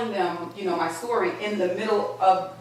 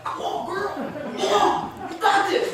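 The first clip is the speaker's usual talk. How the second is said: mirror pep talk; 12 semitones higher, slower than usual. Pretend. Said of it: "pep talks with yourself in the mirror".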